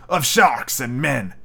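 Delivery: slow, solemn captain's reply. Acted. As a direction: say it gravely and slowly. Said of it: "Captain Nemo replied solemnly".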